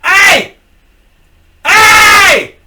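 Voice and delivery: high, loud shout of hey; yelling out. Retold or imitated. Yelling at the figure in the tower door, loud shout. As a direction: call out sharply across the lot. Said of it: "I yelled out".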